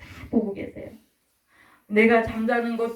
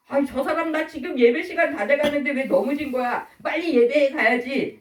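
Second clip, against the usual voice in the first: higher-pitched impatient grumble; mock irritation; 4 semitones higher than usual. Hurried churchgoer grumbling at fallen person, irritated. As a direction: grumble as if held up.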